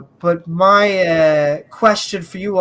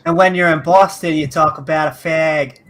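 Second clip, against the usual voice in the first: put-on a light, joking Boston accent. Joking about regional slang, in a light Boston accent. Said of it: "I just wanted to do my Boston accent again".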